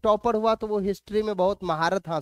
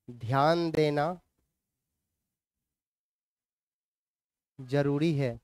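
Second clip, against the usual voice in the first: measured, level dictation with long pauses. Acted. Teacher dictates notes for students to write, measured dictation. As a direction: read it out phrase by phrase for note-taking.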